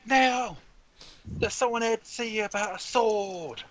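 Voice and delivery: high-pitched yelled summons; shrieky, impatient household call; calling through the house. Acted. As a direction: holler it up to another floor. Woman yelling through the house.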